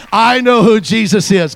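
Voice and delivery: loud slow testimony; proclaimed aloud. Shown as a demonstration. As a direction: proclaim it to the whole room. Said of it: "Come on, say it".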